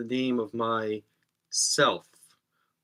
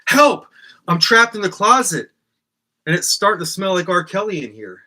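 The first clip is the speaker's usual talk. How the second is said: loud, much higher cry for help; hammed-up trapped-in-a-closet panic; mock panic; 7 semitones higher, 8 dB louder than usual. Host pretending to be trapped in his closet, yelling in mock panic. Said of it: "But I might do something like".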